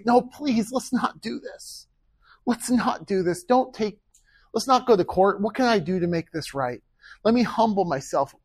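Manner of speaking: acted-out humble appeal; pleading. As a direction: beg earnestly to make peace. Models pleading with angry brother.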